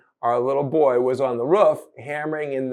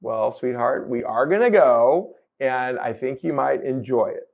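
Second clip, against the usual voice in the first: loving. Retold or imitated. Parents answering their protesting son, loving but firm. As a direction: settle down and gently reassure the child. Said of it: "we said lovingly".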